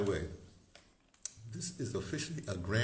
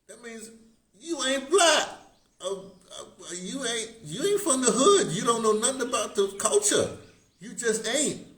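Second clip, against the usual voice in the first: mock verdict; 11 semitones higher, 5 dB louder than usual. Real, not acted. Emphatic mock verdict, pitch way up.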